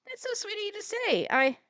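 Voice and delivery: put-on high, gushing girlish voice; flattered Christine. Christine thanking Jeremy for the compliment, gushing and high. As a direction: coo it back, touched.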